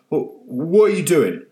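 put-on drowsy old man half waking; voiced old man still groggy; confused old man. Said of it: "said the old man".

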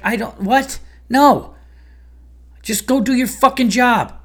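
exasperated comic yelling at a slacker colleague; incredulous snap. Retold or imitated. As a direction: blow up at him in disbelief. Snapping at an unprepared comic.

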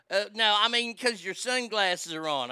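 lightly imitated Southern lady; Southern lady's drawl. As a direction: mimic a Southern woman explaining herself. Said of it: "'cause that's how she talked".

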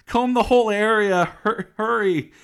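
high, loud frantic command; mock urgent orders. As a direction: shout out hammed-up orders. Frantic retold orders about stolen bike.

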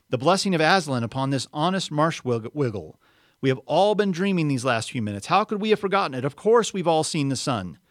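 loud, high, rousing proclamation; rally everyone with fresh conviction; excited prince, freshly awakened; cried out. A narrator's reading. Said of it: "cried the prince".

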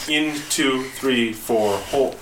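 brisk count of the beats; quick breath count. Shown as a demonstration. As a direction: run through the count quickly. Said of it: "it would be slower than that".

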